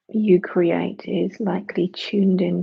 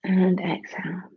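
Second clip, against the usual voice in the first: whispering. Acted. Breath cue in meditation.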